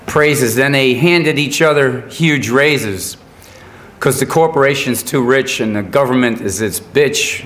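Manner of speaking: measured, rhythmic recital of song words; poem recitation. Real, not acted. Songwriter recites his blues song as a poem to an audience, rhythmic recitation. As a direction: speak the rhymes line by line with pauses. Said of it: "just gonna recite the words as a, uh, poem".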